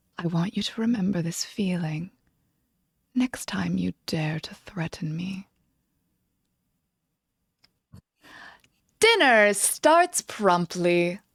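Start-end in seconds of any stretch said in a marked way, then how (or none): 0.2-5.5 low, threatening, menacing whisper. Game master voicing a character who leans close to another, whispering in his ear. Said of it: "she whispers in your ear".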